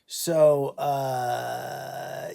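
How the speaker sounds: fighting back real tears on a small word; a real catch of tears in the throat; choked up. Real, not acted. Telling of dog's pneumonia.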